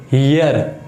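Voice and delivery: हियर said with an h, like here; हियर with a clear h onset; wrong h sound. Shown as a demonstration. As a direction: put an h in front of हियर. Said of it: "नहीं".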